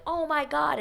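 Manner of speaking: high-pitched imitation of astonishment; mock shock. Guys giving away the kiss, high mock shock. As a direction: overreact with a high mock cry. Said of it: "if you're gasping".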